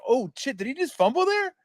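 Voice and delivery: high, hushed shock; high hushed oh shit; stunned disbelief. Retold or imitated. Guys reacting to fumble.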